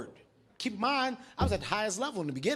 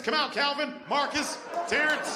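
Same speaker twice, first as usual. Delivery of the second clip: mock calling out; 4 semitones higher than usual. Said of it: "He'll tell on his friends".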